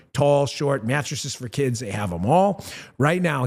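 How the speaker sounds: upbeat host reading a mattress ad. Acted. Host pitching a mattress sponsor to viewers, ad-read voice. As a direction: sell it like a live radio spot.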